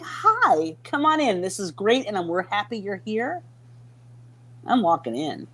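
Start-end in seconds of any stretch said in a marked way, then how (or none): 0.0-3.4 open, inviting hello; welcoming host. Acted. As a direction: greet them like an eager party host. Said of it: "they're welcoming".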